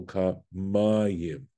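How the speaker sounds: "Ka Mayim" as ka-MA-yim; stress on MA. Shown as a demonstration. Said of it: "this is where the accent falls".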